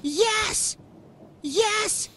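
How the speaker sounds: high, elated exclamations; triumphant cheer. Real, not acted. Player celebrating a win in the game, triumphant cheer. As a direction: cheer each yes in a high voice.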